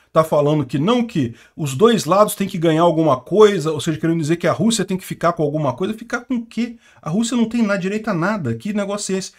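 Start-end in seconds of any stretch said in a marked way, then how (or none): 5.9-9.3 high-pitched incredulous questioning; indignant, pitched-up rhetorical questions; indignant disbelief. Real, not acted. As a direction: challenge the absurd idea, pitch raised. Indignant rhetorical questions about negotiating.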